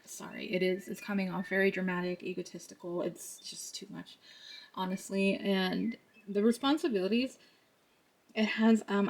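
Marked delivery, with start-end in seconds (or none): 3.0-4.2 breathy whispered aside, half to herself. Real, not acted. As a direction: drop to a whisper to comment.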